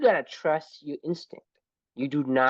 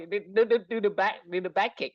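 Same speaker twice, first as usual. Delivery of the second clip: higher, insistent coaching from ringside; urgent repeated instruction, pitched up; backseat coach; 7 semitones higher, faster than usual. Acted. Coach to a fighter in the ring, insistent.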